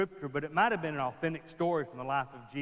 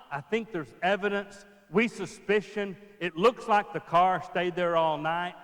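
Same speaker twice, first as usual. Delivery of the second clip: mock hedging; 4 semitones higher, 5 dB louder, slower than usual.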